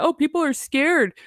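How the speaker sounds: sarcastic imitation of a scared claim, drawn out; mocking her claim. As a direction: parody her fake fear. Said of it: "she tried to say that".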